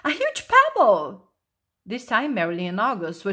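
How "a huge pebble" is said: high, loud and proud announcement; triumphant shout. A narrator's reading. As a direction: proudly proclaim the great find. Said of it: "she shouted tri-, triumphantly".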